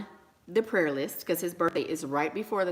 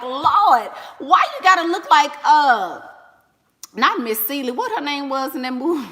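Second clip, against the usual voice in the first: loud mock exasperation; 5 semitones higher, 7 dB louder than usual. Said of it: "I'm like".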